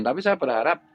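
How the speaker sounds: pitched well up, forceful and stern; half-angry lecture pitched high; high intonation. Real, not acted. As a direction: raise the pitch high to scold. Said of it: "saya pakai intonasi tinggi seperti ini".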